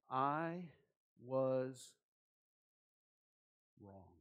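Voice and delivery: halting, with long pauses between words; reluctant admission. Shown as a demonstration. Preacher showing three very difficult words, halting admission. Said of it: "very difficult words for all of us to say".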